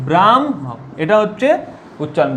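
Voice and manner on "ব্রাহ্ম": ব্রাহ্ম said as bram-ho, m before h; teacher models ব্রাহ্ম as bramho; pronunciation demo. Shown as a demonstration. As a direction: say ব্রাহ্ম with the m sound first, then h. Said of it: "উচ্চারণ কি হবে?".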